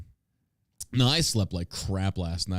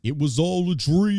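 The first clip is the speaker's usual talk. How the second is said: high, slow mock dramatic line; mock dramatic reveal; 7 semitones higher, 4 dB louder, slower than usual. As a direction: ham up the twist like a movie.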